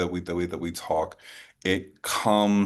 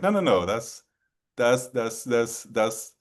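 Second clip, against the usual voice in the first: higher-pitched, stammering protest; insistent correction; 5 semitones higher than usual. Retold or imitated. Friend correcting a mistaken guess in a retold chat, insistent. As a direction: retell a flustered correction, pitched up. Acted quote of an excited correction.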